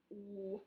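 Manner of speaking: W-I-T-E sounded letter by letter, softly; sounding out. Shown as a demonstration. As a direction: sound out W-I-T-E slowly. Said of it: "It sounds like this".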